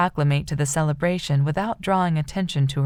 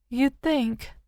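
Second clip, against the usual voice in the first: higher, hushed, resigned; sad agreement; 7 semitones higher than usual. A narrator's reading. Rose sadly agrees with Brody, resigned. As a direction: let the words fall heavily. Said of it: "Rose agreed sadly".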